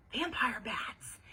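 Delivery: slow, falling confirmation; matter-of-fact confirmation. A narrator's reading. Ivy confirms her claim to Bean, matter-of-fact. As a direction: state it slowly as settled fact.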